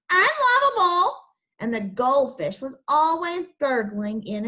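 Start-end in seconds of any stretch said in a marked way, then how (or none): 0.1-1.2 high, loud shrieked parrot call; squawking parrot. Acted. Parrot squawking its insult at Alfred, high and loud. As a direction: screech the word like a parrot. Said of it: "The parrot was always squawking".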